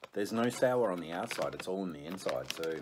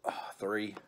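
whispering; 3 semitones higher, slower than usual. Real, not acted. Whispered count.

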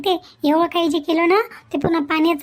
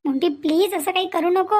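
scared wife begs blackmailer not to come; frightened pleading; 3 semitones higher than usual. Acted. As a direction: plead with him as if he could hurt you. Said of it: "हिची एवढी घाबरलेली आवाज".

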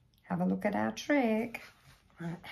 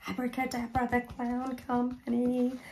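put-on kids party magician; 4 semitones higher than usual. Magic spell said again.

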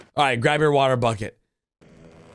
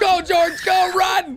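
excited shout; 4 dB louder, slower than usual. Real, not acted. Cheering George to flee.

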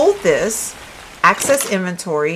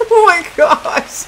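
higher, slow, stretched oh my gosh; disbelief; 8 semitones higher, 4 dB louder, slower than usual. Real, not acted. Streamer baffled by the game, slow disbelief. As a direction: let it drag in disbelief.

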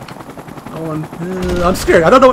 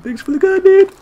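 higher and louder, mock-grateful shout; sarcastic thanks; 4 dB louder than usual. Real, not acted. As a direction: throw the thanks back as a jab. Teammate took his gun.

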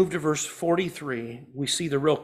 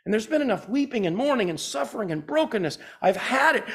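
raised pitch, fed-up outburst; angry Jesus; 5 semitones higher than usual. Acted. Preacher voicing Jesus fed up with death, angry. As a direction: voice his anger at death, pitched up. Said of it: "Jesus is angry. He's like".

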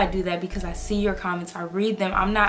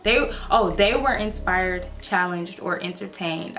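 choked up. Real, not acted. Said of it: "I can't read right now".

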